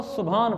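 सुभान with merged bh; common mispronunciation. Retold or imitated. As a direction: say सुभान as su-bhaan. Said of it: "ये गलत है". (सुभान, भ वाली गलत अदायगी)

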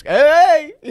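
high, loud cheery hey; match the fan's energy; bright shouted hello, laughing; excited greeting. Retold or imitated. Dale greeting fan, acted.

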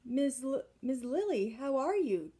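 a lightly voiced prim society lady; fussy society lady. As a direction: greet him like a prim society matron. Miss Lily's greeting.

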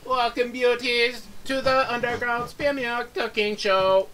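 slow, high and loud TV host; cooking show host. Pretend. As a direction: greet the audience like a showman. Game show host welcome.

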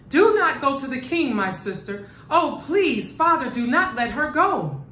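a touch of panic, begging; hysterical pleading. Acted. Manyara begs her sister and father, in mild acted hysterics. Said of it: "she cried hysterically".

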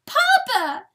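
very high, loud bawl. A narrator's reading. Poor fawn thrusting her head at Papa, loud bawl. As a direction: bawl like a calf for its parent. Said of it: "bawled the poor fawn".

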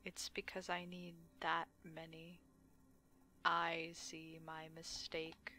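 soft unvoiced whisper; whispered aside. Gamer whispering a mock confession to his friend. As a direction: breathe the words out with no voice.

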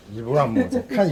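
high, loud doggy praise; squeaky praising a dog. Real, not acted. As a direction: gush over the dog up high.

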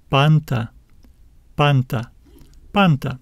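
"Panta" with the first syllable stressed, falling after; teacher's demo of "panta", stressed at the front. Shown as a demonstration. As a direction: model "panta" evenly, leaning on PAN. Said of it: "We will need to stress, uh, this syllable".

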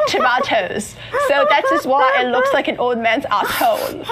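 amused mock British accent, halting; put-on British accent. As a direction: hold the British accent while fighting laughter. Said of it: "I go all in".

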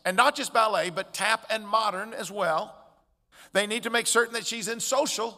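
piling on demands, mildly pushy; lightly mimicked pressure, stressing each new demand; insistent. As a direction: imitate insistent friends reeling off must-dos. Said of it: "The insistence of their friends".

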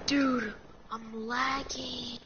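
slow, drawn-out fake complaint; hyped gamer bro. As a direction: hype up pretend lag, stretched slow. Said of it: "I'm just kidding".

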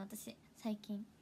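whispered aside, slow. Real, not acted. Whispered aside about herself. (ささやき声で)

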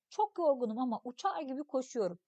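put-on expressive read-aloud of a children's story. Teacher reading a story text to pupils, expressive narration. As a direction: read the tale to the class, acting the voices.

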